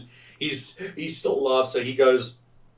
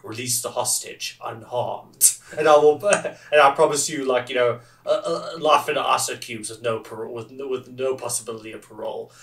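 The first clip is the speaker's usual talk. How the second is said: growly Judge Dredd voice. Retold or imitated. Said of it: "this very growly voice".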